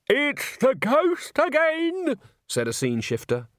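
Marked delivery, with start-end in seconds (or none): 0.1-2.2 very high, drawn-out wail; panicky, stretched-out high voice; alarmed cry. A narrator's reading. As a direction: cry out the dreadful news. Scene shifter cries out in alarm.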